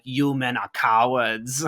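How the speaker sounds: slow, lightly put-on German accent; a hint of deliberate German accent; Werner Herzog. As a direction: deliver it with a slight mock-German solemnity. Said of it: "I feel like Werner Herzog".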